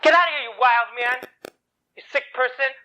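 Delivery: mild mock yell, upset; retold screaming. Upset boy yells at the man threatening children, mock screaming. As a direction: yell it lightly, pitched a little up. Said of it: "He started screaming".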